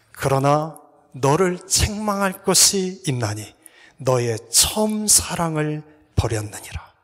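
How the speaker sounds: slow, measured verse reading; scripture reading. Acted. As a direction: read the rebuke slowly and gravely. Preacher reads Revelation verse.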